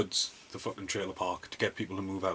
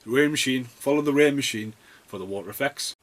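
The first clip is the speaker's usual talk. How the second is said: mock film director; 4 semitones higher, 8 dB louder than usual. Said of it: "It's like".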